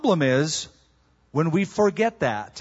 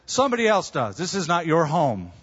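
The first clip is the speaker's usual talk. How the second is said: catching himself. Acted. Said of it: "I have to catch myself".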